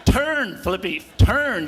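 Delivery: laughing retold call. Surfer laughingly tells his old mentor Flippy how to get back up, half-shouted. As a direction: call out the answer through a laugh. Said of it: "And I'm going".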